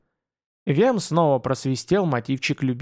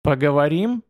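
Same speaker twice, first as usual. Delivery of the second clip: cold contempt; 3 dB louder than usual. A narrator's reading. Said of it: "повторил с холодным презрением".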